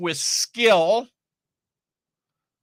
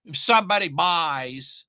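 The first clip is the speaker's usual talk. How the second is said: lightly put-on voice of a dithering beginner; a hint of a mocking, hesitant voice. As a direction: make fun of the timid launcher who hedges everything. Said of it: "I don't know why I use that voice".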